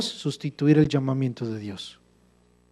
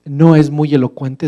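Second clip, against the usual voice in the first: God angry; 5 dB louder, slower than usual. Acted. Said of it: "Dios se enojó y le dijo".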